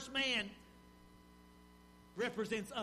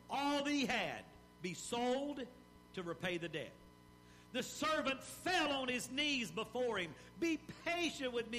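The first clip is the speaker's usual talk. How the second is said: measured pulpit reading of a parable; dramatic scripture reading. Acted. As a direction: read the parable like you're telling it to the church. Preacher reads the parable aloud.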